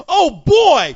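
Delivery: high, loud, giddy put-on voice; mocking eager sucker. Mocking eager convention hopefuls to his cohost, high and giddy. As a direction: squeal it like an overexcited rube. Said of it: "you think I'm just gonna jump?".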